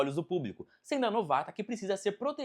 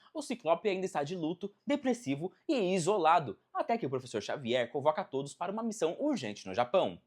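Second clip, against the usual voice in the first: normal talking voice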